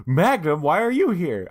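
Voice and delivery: a rough go at Angela Lansbury calling out; attempted Angela Lansbury. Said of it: "I wish I could do Angela Lansbury's voice".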